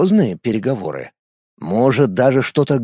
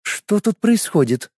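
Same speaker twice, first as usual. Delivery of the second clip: cold, slow and higher; icy voice; 7 semitones higher, slower than usual. A narrator's reading. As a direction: ask coldly, each word measured. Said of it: "ледяным голосом спросила Лена".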